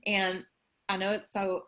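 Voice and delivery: talking around a mouthful of food; words muffled by a bite; mouth full. Real, not acted. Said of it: "I have something in my mouth".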